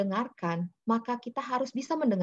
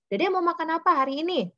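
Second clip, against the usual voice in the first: put-on open question to child; 7 semitones higher, 4 dB louder than usual. Shown as a demonstration. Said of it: "Jadi jangan kalau misalnya tanya".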